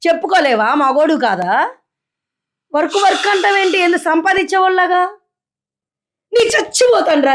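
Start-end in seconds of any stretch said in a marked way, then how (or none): 2.7-7.3 higher, exasperated outburst; fed-up wife rails at husband; angry yelling. Acted.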